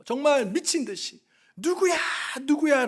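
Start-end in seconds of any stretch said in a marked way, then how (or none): 1.6-2.9 imitated yelling. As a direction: imitate a frantic shout, held back. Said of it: "고래고래 소함치며 고함을 치며". (고함치는 흉내를 내듯 높게)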